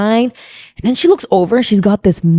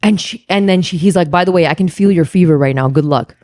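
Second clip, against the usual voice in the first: mock firm refusal; 6 semitones lower than usual. Acted firm bargainer.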